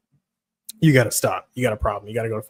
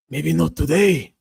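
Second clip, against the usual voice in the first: Brandon Moreno; 4 semitones higher, 5 dB louder than usual. Pretend. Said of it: "This is Brandon Moreno".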